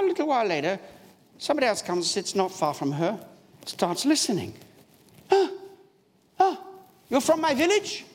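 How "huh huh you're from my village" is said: high, puzzled huh, rising to an excited question; a stranger, amazed to hear his own village tongue; surprised villager. Retold or imitated. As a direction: catch the sound of home and lean in. Man overhears praying in his dialect.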